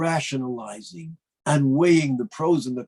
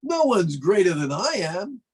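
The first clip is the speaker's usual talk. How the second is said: "No one's greater than I am" with mild higher-pitched pride; conceited boast; 4 semitones higher than usual. Acted. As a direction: lightly puff up on "No one's". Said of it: "the statement that seems so conceited".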